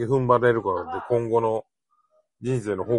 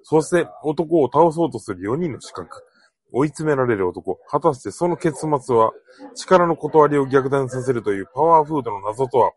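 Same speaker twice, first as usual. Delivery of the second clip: dramatic trailer narration, punchy and loud; movie trailer voice; 3 semitones higher, 5 dB louder than usual. Pretend. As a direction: announce it like a blockbuster teaser. Mock movie trailer opening.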